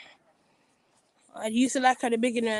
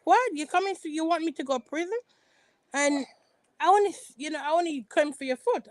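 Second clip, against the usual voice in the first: high, incredulous protest; mock shocked Karen; 5 semitones higher than usual. Karen protesting to Ashley, high and incredulous. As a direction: squeak out disbelief like Karen. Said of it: "Karen was like".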